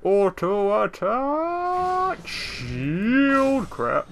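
frantic callouts. Real, not acted.

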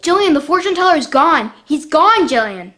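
high, loud frightened outburst; panicked, calling to her sister; alarmed. Acted. Girl finds fortune teller missing.

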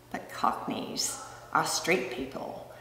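whisper. Acted. Whispered aside.

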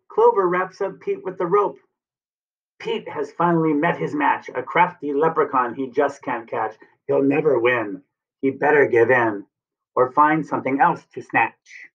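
put-on lilting rhyme for young children; storybook read-aloud. A narrator's reading. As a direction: read the verse brightly to little ones.

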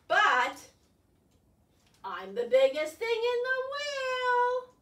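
high, loud triumphant boast; triumphant squid. Acted. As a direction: crow it out, still the biggest somewhere. Squid boasts inside whale.

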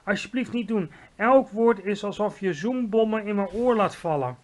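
high, pained begging; pleading cry. A narrator's reading. Giant begging Sophie to spare his ear, pleading. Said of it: "riep de arme G V R".

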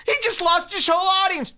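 high, mock-shocked gossip; mock outrage. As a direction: ham up the scandal. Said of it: "This is what I say".

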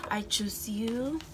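slow breathy whisper. Real, not acted. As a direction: whisper it slowly. Channeled message read softly.

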